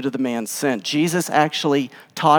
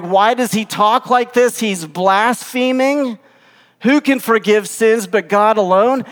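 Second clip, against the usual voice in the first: higher, insistent outrage; indignant accusation; 5 semitones higher, 4 dB louder than usual. Acted. Religious leaders objecting to blasphemy, indignant. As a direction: accuse him, pitched up and emphatic.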